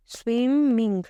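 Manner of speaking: स्विमिंग in two long, separate beats, स्विम-मिंग; split into syllables. Shown as a demonstration. Teacher repeating for students, स्विमिंग split into two drawn-out syllables. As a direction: sound out both halves of स्विमिंग. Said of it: "दो बार आ रहा है ना".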